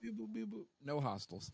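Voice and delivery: high robotic beep and report. Retold or imitated. Imitating scanning robot.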